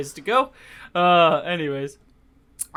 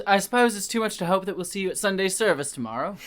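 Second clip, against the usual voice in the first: stern vicar; 3 semitones higher, faster than usual. Acted. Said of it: "Sounds like my grandmother".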